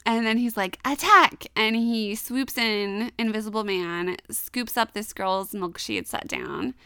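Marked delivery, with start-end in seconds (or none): 0.8-1.5 higher, louder retold call to attack; mock battle cry.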